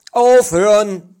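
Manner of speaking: a high, loud, slow shout; loud call to stop. A narrator's reading. Wrestler shouting to end the fight.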